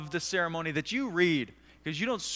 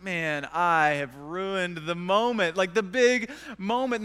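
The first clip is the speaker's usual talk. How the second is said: dismayed; slower than usual. Retold or imitated. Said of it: "I feel really bad that I've ruined".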